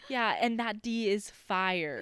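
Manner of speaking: quoted clapback, drawn out for punch; slow, sassy retort in imitation; snapping back. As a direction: snap back slowly, playing it up. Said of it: "she snapped back".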